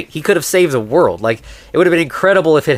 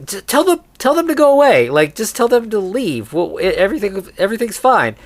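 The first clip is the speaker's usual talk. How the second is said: high, frantic pleading; высокий испуганный голос; panicked Helene; 6 semitones higher than usual. Retold or imitated. Panicked wife voiced in retelling.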